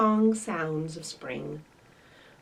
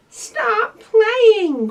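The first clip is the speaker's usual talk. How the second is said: loud, high shout; puppy shouting to the playing rabbits; cried out; 12 semitones higher, 12 dB louder than usual. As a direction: call them to stop at once. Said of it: "cried Fletcher".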